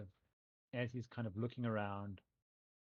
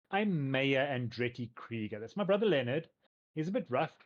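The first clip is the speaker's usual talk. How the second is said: cheerful mayor; 3 semitones higher, 7 dB louder than usual. Acted. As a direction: greet the guests like an eager showman.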